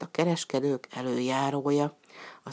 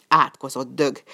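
an angry exclamation, lightly raised; a touch of a curse called out; mild cry; 4 dB louder than usual. Acted. Slave kicked by the mule, cursing it, mildly raised. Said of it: "kiáltott fel a fekete".

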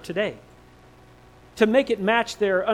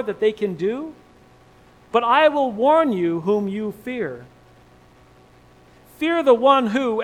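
solemn Jesus warning; 3 semitones higher, 3 dB louder than usual. Acted.

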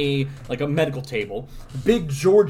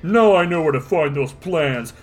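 tough cop voice; 3 dB louder than usual. Acted. Dredd voiced reading comic.

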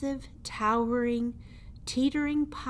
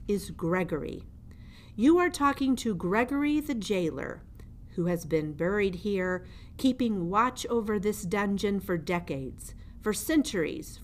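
put-on menacing old jailer; 2 semitones higher than usual. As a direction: lean over the prisoner and gloat. Gregory introduces himself.

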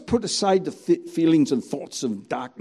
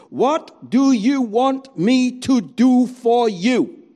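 voice of Jesus; 6 semitones higher, 3 dB louder, slower than usual. Retold or imitated.

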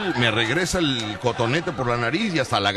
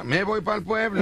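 slow joking drawl; 7 semitones higher, slower than usual. Retold or imitated. Joking about fleeing.

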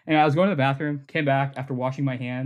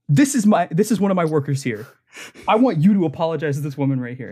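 mock manager; 4 dB louder, faster than usual. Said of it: "I wanna mess with her".

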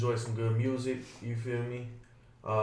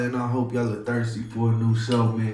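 radio DJ hype intro. Acted. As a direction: pump up the crowd like a live DJ. Opens the radio show.

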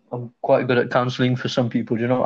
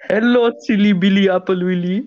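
a higher, lightly voiced imitation of a newcomer's accent in English; mock freshie accent; 4 semitones higher than usual. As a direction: tease by doing his mum's freshie accent. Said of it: "You're doing the freshie accent".

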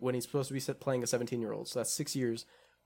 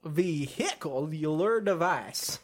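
put-on Southern accent; slower than usual. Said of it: "And Sean's like".

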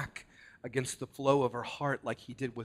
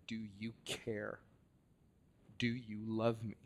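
pleading; 8 dB quieter than usual. Retold or imitated. Quoted plea of the hurting.

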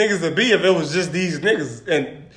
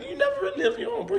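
laughing tease; 8 dB quieter, much faster than usual. Acted. Teasing friend who never lived alone.

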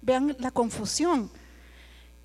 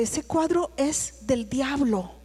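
ominous warning; much slower than usual. Retold or imitated. Lady warns about devil painting.

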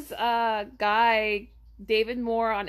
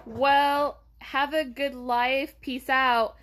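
slow, breezy brush-off; dismissive; 3 semitones higher, much slower than usual. Retold or imitated. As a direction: wave him off with a slow shrug. Brushing off the scam guy.

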